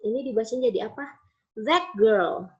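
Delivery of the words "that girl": put-on "That" said as thak before girl; assimilated t to k. Shown as a demonstration. Teacher showing students place assimilation, "That" ending in k. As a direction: turn the t of "That" into k. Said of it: "Tidak that girl".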